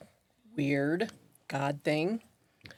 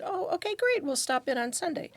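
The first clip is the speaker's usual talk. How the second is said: eager reply; 11 semitones higher than usual. Retold or imitated.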